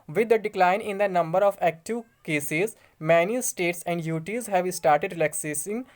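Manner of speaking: slow, formal reading of an official letter. Acted. Vlogger reads the home secretary's letter to viewers, slow formal reading. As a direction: read the official notice word by word.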